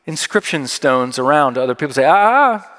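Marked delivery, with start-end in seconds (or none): 2.1-2.7 higher-pitched mock scolding "ah-ah-ah"; warding-off "ah, ah, ah". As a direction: stop someone with a rising "ah, ah, ah". Mimics warding people off.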